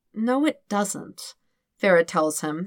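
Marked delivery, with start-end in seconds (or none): 0.1-1.3 gentle sympathy. Acted. Farah soothing panicked Dirk, slow and sympathetic. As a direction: let him down gently. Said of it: "sounding sympathetic".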